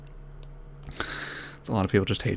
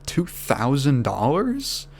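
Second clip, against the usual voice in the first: slow, rising, disbelieving two thousand dollars; stunned disbelief; 4 semitones higher, much slower than usual. Retold or imitated. Victim hearing the scammer's price, slow stunned question. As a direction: drag it out in disbelief.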